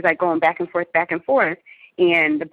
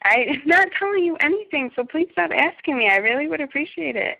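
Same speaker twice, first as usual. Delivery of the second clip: exasperated; 9 semitones higher than usual. Real, not acted. Pushing back on his questions.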